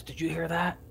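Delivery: lightly voiced gruff guard; a hint of a rough guard asking. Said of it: "in this, like, really gruff voice".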